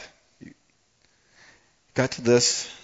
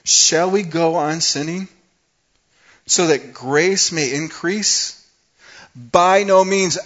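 rising, louder and higher to a furious NO; stern anger; 7 semitones higher, 8 dB louder, slower than usual. Acted. Preacher voicing Paul to sinners, stern angry outburst. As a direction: preach it like an upset apostle. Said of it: "stern, uh, anger that".

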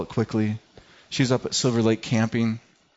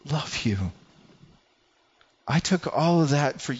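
softer and slower, reassuring; tender, hushed voice of God; 2 semitones lower, 4 dB quieter, slower than usual. Acted. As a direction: speak God's words gently, almost hushed.

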